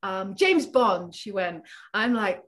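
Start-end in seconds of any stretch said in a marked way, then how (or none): 0.0-1.1 imitating a Chinese colleague, slow; light Chinese-accented English, stretched out; mild Chinese accent. Retelling a colleague's words in a light Chinese accent. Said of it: "she has a little bit of an accent".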